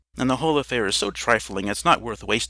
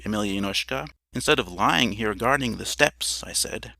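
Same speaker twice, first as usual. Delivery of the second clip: ordinary delivery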